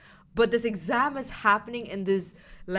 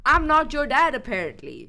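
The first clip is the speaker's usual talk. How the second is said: mock yell, higher and louder; screaming; 6 semitones higher, 7 dB louder than usual. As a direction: shout it at the daughter in a retold rage. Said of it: "he screamed at his daughter".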